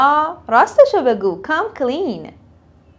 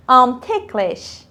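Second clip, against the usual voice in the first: slow model; much slower than usual. Shown as a demonstration. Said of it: "teacher models phrase slowly".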